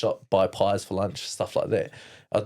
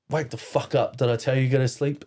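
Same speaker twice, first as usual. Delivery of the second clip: mildly raised, quick mock scolding; retold angry wake-up; 4 semitones higher than usual. Abuser waking up a sleeping boy, retold angry. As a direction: imitate an aggressive rude awakening.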